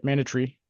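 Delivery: "mandatory" said as MAN-duh-tree, low-key; British pronunciation. Retold or imitated. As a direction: quote "mandatory" the British way, ending squeezed to -tree. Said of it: "how the British pronounce it".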